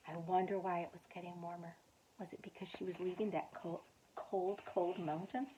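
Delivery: soft quick wondering aside; hushed aside. A narrator's reading. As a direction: muse quietly to the child. Reader's musing aside.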